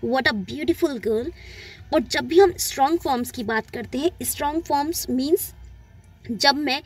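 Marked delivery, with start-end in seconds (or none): 0.0-1.3 put-on what a lady and girl drawn out, a said as a light uh; slow and careful, a barely there; slow weak-form demo. Shown as a demonstration. Teacher slowly models the weak a for students. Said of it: "इसको हम अ pronounce करते हैं".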